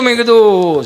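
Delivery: ordinary talk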